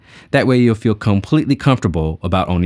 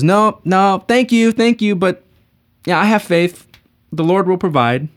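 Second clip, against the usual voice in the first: higher, polite but firm refusal; lightly voiced stubborn believer; 10 semitones higher, slower than usual. Man on the roof politely refusing the helicopter. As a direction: thank them and refuse.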